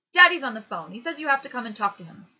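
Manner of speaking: put-on loud, high child's announcement; little sister voice. A narrator's reading. Little sister summoning her brother to the phone, loud child voice. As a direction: call it out like a small girl.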